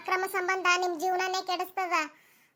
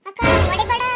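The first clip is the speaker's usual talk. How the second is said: pleading cry; 2 semitones higher, 8 dB louder than usual. Acted. Mistress begs not to be hit.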